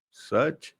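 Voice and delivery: high, rising happy question; hopeful delight, pitch lifting. A narrator's reading. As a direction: ask it in pleased disbelief. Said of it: "Pappu Paswan की खुशी".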